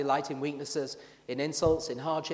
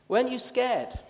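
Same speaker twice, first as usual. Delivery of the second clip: incredulous question; 9 semitones higher, 6 dB louder than usual. Acted. Friend asks Michael if he was scared, incredulous. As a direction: voice jumps up, louder, in disbelief.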